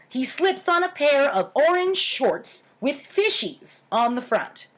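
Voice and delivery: lively storyteller voice; playful warning tone for the listeners; story narration. A narrator's reading. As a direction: read it like a spooky campfire tale. Reads childhood story aloud.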